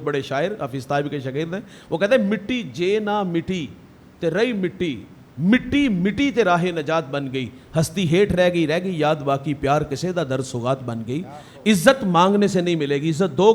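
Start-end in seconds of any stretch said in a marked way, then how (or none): 2.3-11.2 recited poem. Acted.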